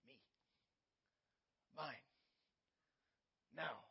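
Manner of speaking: deep, blunt demands, one word at a time; deep-voiced selfish toddler. Preacher mimicking a demanding child in a deep voice. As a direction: growl out each word like a greedy little boss. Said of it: "maybe they don't have a deep voice like that".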